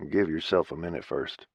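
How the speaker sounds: gentle. Acted. Thad gently calming grieving Kate, soft and low. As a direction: ease her down gently. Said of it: "Thad said gently".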